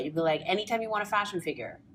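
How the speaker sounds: fast, wired caffeinated babble; too much caffeine. Real, not acted. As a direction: rattle it off, over-caffeinated. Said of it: "I'm so caffeinated right now".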